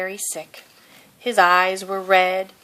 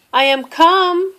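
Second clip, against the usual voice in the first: high, louder proclamation; grand declaration; 11 semitones higher, 6 dB louder than usual. A narrator's reading. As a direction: declare your arrival with a flourish. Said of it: "declared Mouse".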